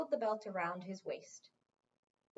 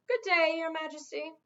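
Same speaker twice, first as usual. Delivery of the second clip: mocking farewell; 6 semitones higher, 7 dB louder than usual. Wizard's mocking farewell bow.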